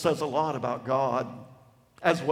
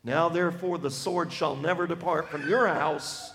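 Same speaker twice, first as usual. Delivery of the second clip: prophet's anger; 2 semitones higher than usual. Acted. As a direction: thunder God's charge at the king. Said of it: "I'm portraying his anger".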